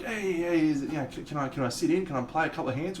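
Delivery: mock-friendly asking to join in, voice lifted; eager request to join. Acted friendly request to join game.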